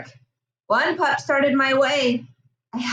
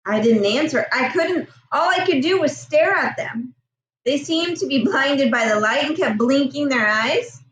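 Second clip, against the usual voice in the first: story narration. A narrator's reading. Reads novel chapter aloud.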